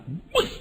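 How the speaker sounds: quick imitated plunge; roller-coaster whoosh. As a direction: mimic a roller-coaster drop. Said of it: "kalau naik halilintar".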